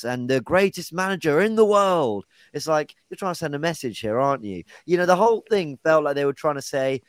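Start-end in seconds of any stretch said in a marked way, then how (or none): 0.0-2.2 high-pitched mock announcer call; imitated stadium announcer shout. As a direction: proclaim it like the guy on the mic, half-shouting. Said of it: "the guy on the mic shouts".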